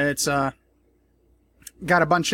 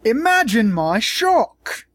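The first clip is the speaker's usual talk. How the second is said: slow, loud, higher sarcastic gasp of surprise; mock shock; 7 semitones higher, 4 dB louder, much slower than usual. Vlogger sarcastically feigning shock at the media. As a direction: overplay fake astonishment.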